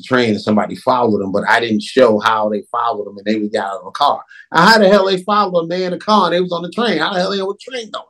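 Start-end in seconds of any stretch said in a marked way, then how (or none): 4.5-8.0 high, fast, incredulous questions; exasperated rant. Real, not acted. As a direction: rant about the plot hole. Ranting at illogical film plot.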